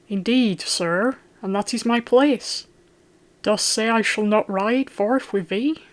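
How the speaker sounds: put-on a boy stung by a taunt, crying out; the son objects to being left behind, crying out indignantly; cried out. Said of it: "he cried".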